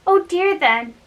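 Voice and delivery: a mild, alarmed cry of dismay; frightened. Acted. Gretel, shut out of her own house, mildly frightened. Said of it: "said she, frightened".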